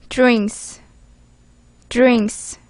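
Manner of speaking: drinks said carefully, twice with a pause; pronunciation model. Shown as a demonstration. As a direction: model drinks for learners to repeat. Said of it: "개프쌤의 발음을 듣기 전에". (drinks를 또박또박 시범 발음)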